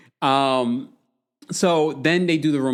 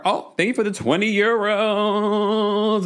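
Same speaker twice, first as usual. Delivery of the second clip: delighted thanks; 8 semitones higher, slower than usual. Real, not acted.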